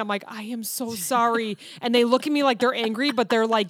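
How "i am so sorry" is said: drawn-out, careful apology; slow apology. Retold or imitated. Clerk to frustrated customer, slow apology. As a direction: spell out the apology slowly.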